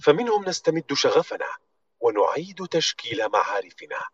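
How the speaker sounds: slow, polished ad read; corporate voiceover. Shown as a demonstration. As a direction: deliver it like a brand commercial. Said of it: "لقيت أحد النصوص القديمة لأرامكو، فممكن أسمعكم".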